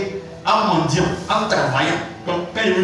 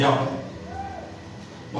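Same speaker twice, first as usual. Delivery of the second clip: whispered surprise; 10 dB quieter than usual. Retold or imitated. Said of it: "Il dit".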